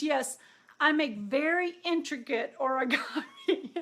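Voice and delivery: laughing through the quoted line; can't keep a straight face retelling it; real amused chuckle in the words. Real, not acted. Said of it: "this is really funny".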